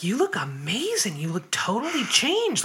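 breathy whispered mock praise; mock gushing whisper. Mocking a woman who kept praising her looks, whispered. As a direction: whisper the compliment like a parody.

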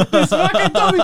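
high, loud outburst through laughter; explosive retold yell. Husband repeating his insult at the lady, high laughing yell. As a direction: explode at her, half laughing. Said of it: "So now I explode".

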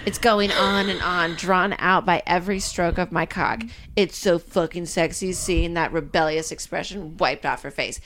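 low, measured read-aloud voice; erotic novel narration. A narrator's reading. Reads the book aloud.

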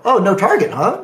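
retold pointed "oh, huh?"; sceptical echo. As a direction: repeat it back as if catching them out. Sceptical echo of opponent's claim.

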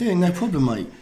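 light, jokey Cockney; Cockney accent. Pretend. Co-host insisting he can do it, Cockney accent. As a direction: answer in a matey Cockney voice. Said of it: "how's your Cockney accent, Jeremy?".

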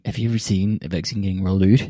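quick Canadian parody, "out" turned to "oot"; mock Canadian accent. Shown as a demonstration. Co-host correcting the accent, mock Canadian accent. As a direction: demonstrate a hammy Canadian "rolled oot". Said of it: "Hey, you should have".

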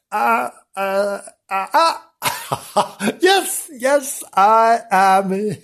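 Janice the reporter. Pretend.

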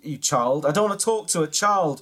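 imitating the actor's brush-off. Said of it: "he said".

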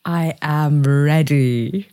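seance medium. Pretend. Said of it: "Mystic Mudge".

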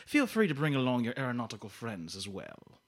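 put-on villain's courtly James Mason accent. Game host baiting contestant with a clue, James Mason accent. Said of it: "once you went into that accent".

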